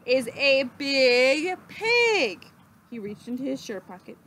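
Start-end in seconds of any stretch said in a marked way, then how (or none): 0.1-2.4 whispered. Acted. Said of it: "whispered Leroy".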